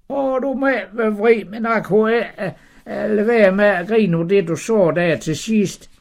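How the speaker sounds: high, giggly apology; Sara pleading. Acted. Sara confessing to the Lord she laughed, high and flustered. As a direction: beg forgiveness half laughing.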